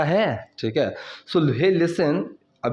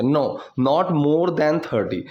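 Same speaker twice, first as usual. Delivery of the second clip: slow model sentence; much slower than usual. Shown as a demonstration. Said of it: "teacher models English slowly".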